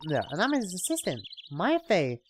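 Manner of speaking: put-on high, amazed young woman; excited girl voice. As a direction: gasp in delight. Maya introducing herself.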